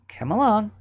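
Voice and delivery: rising into a high yelp; voicing Mouse and Zara. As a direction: let the voice jump up as the ear is pinched. Zara drags Mouse by ear.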